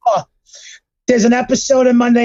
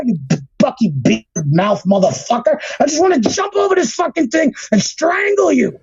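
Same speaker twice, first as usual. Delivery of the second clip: angry rant. Real, not acted. Podcaster threatening to strangle a producer, angry rant. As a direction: spit out insults, then climb into threats. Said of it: "The rant is real".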